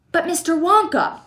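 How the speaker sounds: high excited shout. A narrator's reading. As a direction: call out eagerly to Mister Wonka. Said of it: "he shouted".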